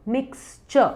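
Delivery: मिक्सचर as "miks-chuh"; correct pronunciation. Shown as a demonstration. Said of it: "correct word है". (मिक्सचर को "मिक्स-चअ" बोलें)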